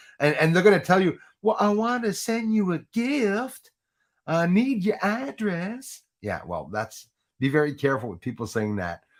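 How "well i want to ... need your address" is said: high, slow Georgian Southern drawl. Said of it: "that was my Georgian Southern accent".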